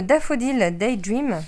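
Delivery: slow, careful English accent on the name; a French speaker trying an English accent. Shown as a demonstration. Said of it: "Pardon pour mon accent".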